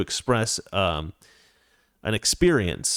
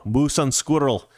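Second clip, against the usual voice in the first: Russian accent; 3 semitones higher, slower than usual. Shown as a demonstration. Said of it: "Now say moose and squirrel".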